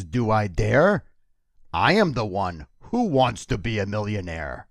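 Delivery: a light hint of a puppet monster voice reciting verse; a mock Cookie Monster poetry recital; Cookie Monster reading a poem. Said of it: "never heard the Cookie Monster read a poem".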